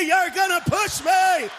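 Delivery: mock disabled friend. To the friend about to push him, a slow shouted mock wail.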